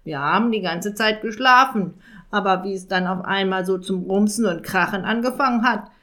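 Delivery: lightly voiced raven rattling off a fib; lying raven. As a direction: babble the excuse like a sly raven. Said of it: "lug der Rabe drauf los".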